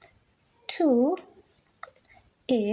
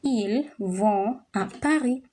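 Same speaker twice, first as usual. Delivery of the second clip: slow dictation pace. Shown as a demonstration. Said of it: "maybe I would have said".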